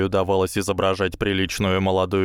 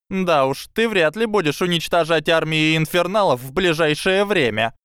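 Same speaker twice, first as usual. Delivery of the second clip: snorting scoff; 8 semitones higher, 3 dB louder than usual. A narrator's reading. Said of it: "фыркнула Лаванда".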